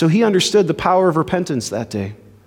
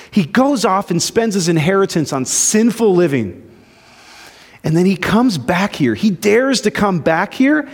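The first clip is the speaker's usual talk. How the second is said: blowing up at dad; 2 semitones higher than usual. Retold or imitated. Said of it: "he just blows up on his dad".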